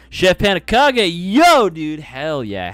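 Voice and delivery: loud, high yo; excited greeting. Real, not acted. Streamer welcoming a viewer, excited. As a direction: call out to a friend.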